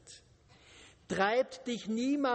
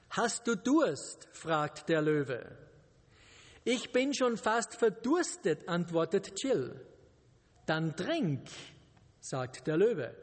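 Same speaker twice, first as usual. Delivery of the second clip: story reading. Acted. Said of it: "Und ich lese euch das vor".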